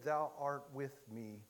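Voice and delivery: put-on slow, soft and tender, a touch of an old man's voice. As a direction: say it gently, like a quiet confession of faith. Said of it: "the tenderness and affection in his voice".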